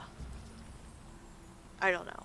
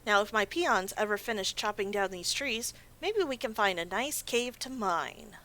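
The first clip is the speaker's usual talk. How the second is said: higher, storybook voice for the orc quest giver; 3 semitones higher, 3 dB louder than usual. Acted. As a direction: read his lines like a friendly NPC. Reads quest NPC text aloud.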